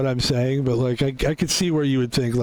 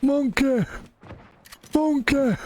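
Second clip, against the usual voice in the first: excited shout; 11 semitones higher, slower than usual. Real, not acted. Spotting a monkey in game.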